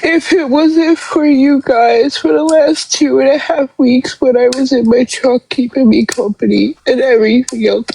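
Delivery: crying. Real, not acted. Tearful apology to viewers.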